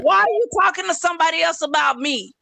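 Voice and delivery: shouting at him from offscreen; shouted complaint. Real, not acted. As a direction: yell it across the room. Argument, shouting from background.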